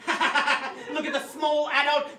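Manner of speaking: imitated jeering ha-ha laugh; mocking children's laughter. Seven-year-olds laughing at the small adult on stage, mock jeering laugh. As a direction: laugh mockingly like a crowd of kids. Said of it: "seven-year-olds just laughing".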